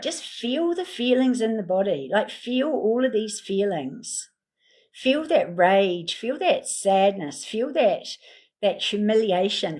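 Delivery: slow, drawn-out meditation prompts; soothing guide lingering on each word; guided meditation. Acted. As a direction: lead them slowly into their feelings.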